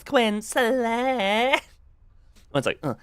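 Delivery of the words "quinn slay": voice crack. Shown as a demonstration. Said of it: "voice crack when I first did it".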